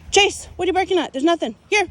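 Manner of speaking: high, loud call across the yard; calling out to dog. Real, not acted. Owner calling to barking Chase, high and loud.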